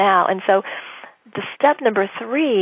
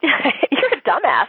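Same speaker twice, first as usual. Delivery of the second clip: mock rude client; 5 semitones higher, much slower than usual. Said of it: "They could have said".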